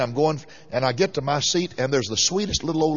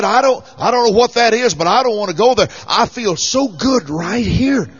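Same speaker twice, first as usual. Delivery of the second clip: high, louder frightened plea, slowing at the end; panicked old lady pleading; 6 semitones higher, 5 dB louder than usual. Retold or imitated. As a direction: beg to stay put, scared of the unknown. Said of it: "now she really became panic stricken".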